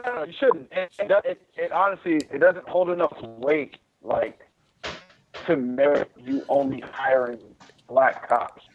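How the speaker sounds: ordinary talk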